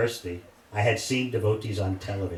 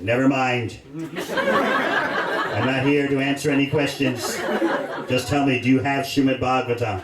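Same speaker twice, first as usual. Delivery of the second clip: impatient insisting; 2 semitones higher, 4 dB louder than usual. Retold or imitated. Young man impatiently insisting.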